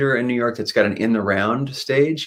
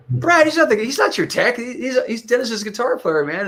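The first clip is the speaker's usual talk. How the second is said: voicing Joel; 14 semitones higher than usual. Joel voiced in retold scene.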